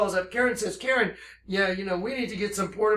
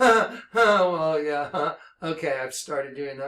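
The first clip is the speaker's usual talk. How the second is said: mock weird little laugh while talking, lower; 4 semitones lower than usual. Retelling how she answered being confronted: imitating a weird little laugh. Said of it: "she does this weird little laugh".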